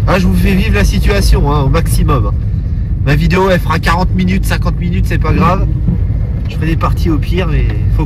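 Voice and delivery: excited. Real, not acted. Excited driving in snow.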